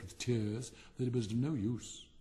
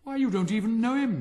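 growled; 9 semitones higher, 9 dB louder than usual. Acted. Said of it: "growled the Roman candle".

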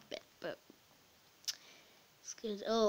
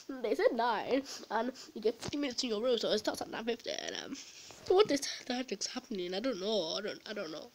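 rambling kid impression. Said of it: "That was the best impression".

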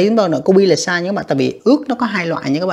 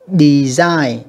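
"Design" with SIGN leaned on; second-syllable stress; 4 dB louder than usual. Shown as a demonstration. Teacher showing students word stress, de-SIGN with the second syllable stressed. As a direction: hit the last syllable of "Design". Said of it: "âm hai nha các bạn".

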